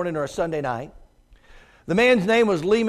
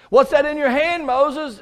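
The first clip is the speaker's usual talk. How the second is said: voice of God; 8 semitones higher, 4 dB louder than usual. Acted. Preacher voices God to Moses.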